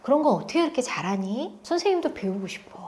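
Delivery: soft, gentle praise; a hint of tender admiration for the pupil; lightly voiced caring teacher. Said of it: "이렇게 다가가잖아요".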